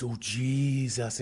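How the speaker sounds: slow, limp "Oh, Jesus" without conviction; half-hearted. Retold or imitated. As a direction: drag out "Jesus" weakly, not meaning it. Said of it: "No, say what I'm saying".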